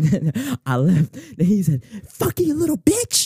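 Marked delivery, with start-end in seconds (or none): 2.1-3.3 high, slow mock insult yelled after a car. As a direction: imitate the dad shouting a parting insult. Dad yelling after departing car.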